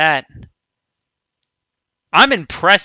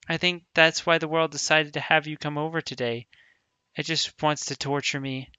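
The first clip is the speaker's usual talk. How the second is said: softer, even read-through of a sad scene; lightly voiced Sayori, subdued and gentle; reading game dialogue; 3 dB quieter than usual. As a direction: read the lines aloud quietly, a touch of sorrow. Reads visual novel text aloud.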